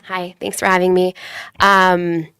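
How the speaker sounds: blocked nose from a cold; stuffy nose. Real, not acted. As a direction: speak with a stuffy head cold. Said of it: "I have a little bit of a cold, ... sound a little stuffy".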